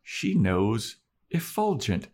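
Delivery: retold astonishment, drawn out; lightly acted wonder at being understood; amazed William. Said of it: "He's like".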